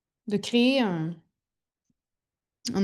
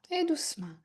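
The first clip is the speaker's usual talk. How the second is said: whispering; 6 semitones higher, 6 dB quieter, faster than usual. Real, not acted. Yoga cue whispered.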